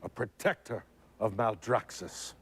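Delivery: lightly voiced warrior baroness; proud declaration in character; Draka line read. The actor reads a Draka line with mild proud delivery. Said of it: "Okay, Alex".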